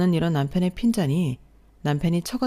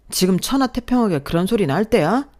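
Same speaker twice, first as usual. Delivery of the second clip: angry rebuke; 4 semitones higher, 4 dB louder than usual. Acted. Husband berating calm wife.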